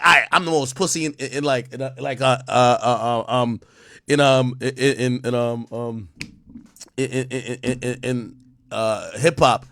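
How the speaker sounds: low and soft, stumbling over every word; mumbled hesitation. Retold or imitated. Admitting he's soft in hip hop, low stammering mumble. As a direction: trail off, dodging the admission.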